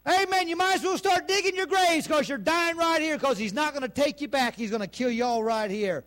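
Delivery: acted alarm, starting high and settling; imagined despairing leader. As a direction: call out doom to the crowd. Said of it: "if their leader would have said".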